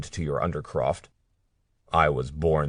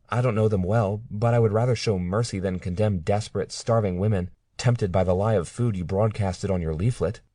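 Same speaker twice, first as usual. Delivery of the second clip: earnest defence; 4 semitones higher than usual. Acted. Claire defends her friends.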